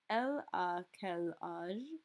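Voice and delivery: slow "Elle a quel âge?" with "elle" leading; slow model phrase. Shown as a demonstration. Teacher modelling the question about a girl. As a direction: model it slowly. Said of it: "flip out our il for our L".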